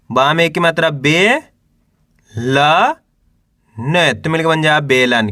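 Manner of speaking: drawn-out letters with pauses between; teacher's spelling drill, held rising syllables; syllable-by-syllable sounding out. Shown as a demonstration. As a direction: sound out each letter for beginners to repeat. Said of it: "एक अक्षर का उच्चारण करके इनको पढ़ रहा हूँ".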